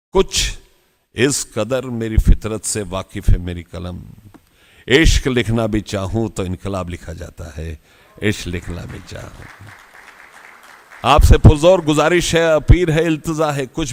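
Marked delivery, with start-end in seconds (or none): 0.1-4.0 poem recitation. Acted. Repeats the couplet's first line. 4.9-9.5 poem recitation. Acted. Speaker closing Bhagat Singh's couplet, low fading recitation.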